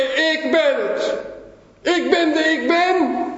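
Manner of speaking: high, ringing "I am" proclamation; emphatic declaration. Retold or imitated. Jesus answers those seeking him, emphatic declaration.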